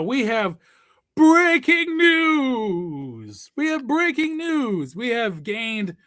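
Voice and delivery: big, slow, high-pitched ring announcer build-up; hype announcer. Acted. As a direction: stretch it out like breaking news. Hyping breaking news announcement.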